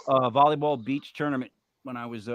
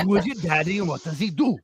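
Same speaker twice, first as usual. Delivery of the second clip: Kindergarten Cop quote again; 3 semitones higher than usual. Retold or imitated. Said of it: "Wasn't that it?".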